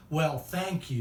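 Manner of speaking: mildly sarcastic, a little rude; a light demo of a sarcastic thanks. Shown as a demonstration. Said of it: "that's kind of a sarcastic tone".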